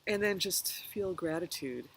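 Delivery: calm meditation guide, pausing between phrases; unhurried guided reflection with long pauses. Real, not acted. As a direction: gently lead listeners through a reflection, leaving room to breathe.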